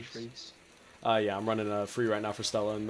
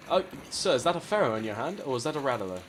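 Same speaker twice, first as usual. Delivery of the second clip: mock gentleman; 3 semitones higher than usual. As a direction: greet them like a courtly English gent. Gentleman voice to opponents.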